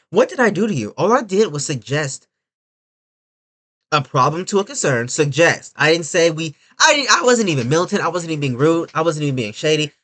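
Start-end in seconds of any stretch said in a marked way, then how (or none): 0.1-4.6 lightly voiced hurt woman; a hint of wounded innocence; speaking as her. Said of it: "Me speaking as her".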